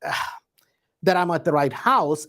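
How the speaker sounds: a touch unsure, groping for words; apologetic, not too confident at the door; hesitant, unsure. Shown as a demonstration. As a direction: sound like you are hunting for words. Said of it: "as if I'm kind of looking for words".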